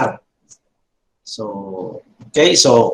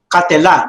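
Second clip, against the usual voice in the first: "katela" with the stress on "la"; accent on last syllable; faster than usual. Shown as a demonstration. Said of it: "The accent is here, la".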